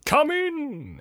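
high, theatrical call; exclaiming ghost. Acted. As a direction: call out as a grand spirit. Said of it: "exclaimed the ghost".

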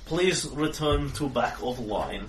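slow, weary bored doorman; tired guard voice. Acted. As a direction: sigh it out like a tired bouncer. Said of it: "in a tired voice says".

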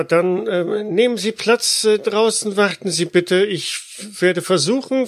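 put-on young secretary, high, Russian accent; hesitant secretary with Russian accent. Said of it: "mit einem sehr starken russischen Akzent".

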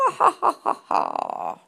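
deep, slow villain laugh; evil cackle. Pretend. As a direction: cackle like a mad scientist. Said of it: "a Halloween-y effect".

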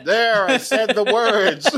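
high, slow mock declaration; mock recital. Co-host acting out the botched spell, mock recital. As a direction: draw it out high, as if done reciting.

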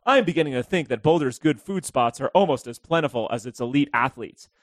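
hint of a self-important travel writer; lightly put-on pompous reading of a quote; Troy McClure and Thurston Howell III. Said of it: "I like that voice".

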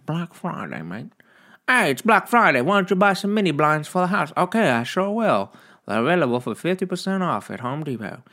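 high mock Aussie sales pitch; Australian accent. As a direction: sell it in a silly Australian accent. Mock Australian Black Friday ad skit.

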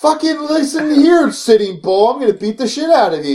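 high, heated mock threat; retold threat. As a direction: imitate squaring up for a fight. Retold threat in near fight.

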